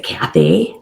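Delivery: low, curt snarky reply. Retold or imitated. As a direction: give the name as a snarky retort, dropped low. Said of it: "she said really snarkily, very snarky".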